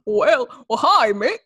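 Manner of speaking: lightly voiced goofy cartoon dog; a hint of a dopey cartoon greeting; mild mock Goofy voice; Goofy impression.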